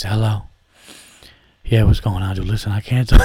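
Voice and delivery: guarded, hushed at the desk; work voice. Shown as a demonstration. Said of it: "Work voice".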